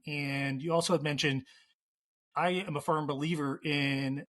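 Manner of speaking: lively host read for the recording; podcast host. Acted. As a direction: present the question to the audience.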